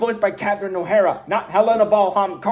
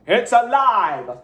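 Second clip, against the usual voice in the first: mock mad-scientist announcement; 2 semitones higher, much slower than usual. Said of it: "Frankenstein reference".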